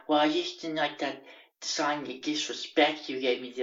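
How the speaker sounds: lightly put-on housemate voice; mildly mock an awkward man's complaint; a hint of an odd, aggrieved character; imitating Justin.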